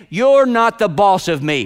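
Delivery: put-on slow, defiant childish taunt; sulky kid pushing back; mock defiant child; inner child. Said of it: "voice of that inner child".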